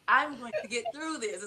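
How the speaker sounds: firm, deliberate pep talk at normal volume; self pep talk. Shown as a demonstration. Showing friends what she tells herself, self pep talk. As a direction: reassure yourself word by word. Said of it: "I literally have to say this to myself".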